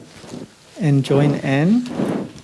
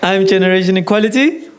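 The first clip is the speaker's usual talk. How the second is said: rallying call; 4 semitones higher, faster than usual. Real, not acted. Leading crowd in call and response.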